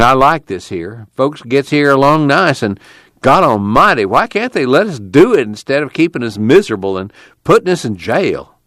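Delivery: troubled committee leader. Acted. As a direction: go from longing to a worked-up complaint.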